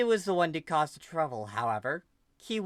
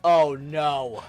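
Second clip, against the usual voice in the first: sudden louder alarmed gasp of words; 9 dB louder than usual. Acted. Aubrey realizing Sunny is in danger, alarmed. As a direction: blurt it as dread hits.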